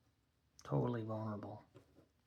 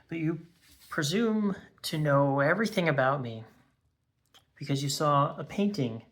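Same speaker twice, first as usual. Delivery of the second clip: raised, louder voice easing toward the end; indignant outburst; 2 semitones higher, 6 dB louder than usual. Acted. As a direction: confront them with rising indignation, then rein it in. Acted confrontation over being judged.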